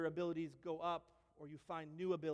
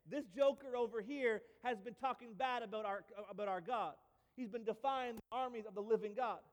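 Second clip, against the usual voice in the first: earnest David; 3 semitones higher, 3 dB louder than usual. Retold or imitated. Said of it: "he says".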